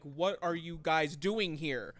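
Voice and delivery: slow, exasperated mock demand; retold anger. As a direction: confront them, stretching out each word. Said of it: "I'm, like, getting mad".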